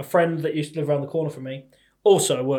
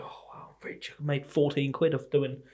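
sarcastic; 6 dB quieter, slower than usual. Retold or imitated. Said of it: "you go".

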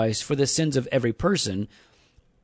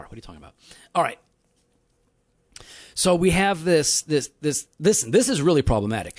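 cigar in mouth. Real, not acted. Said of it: "I'm lighting my cigar".

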